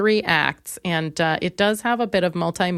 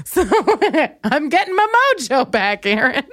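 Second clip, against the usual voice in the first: laughing; 4 semitones higher than usual. Real, not acted. Laughing while talking.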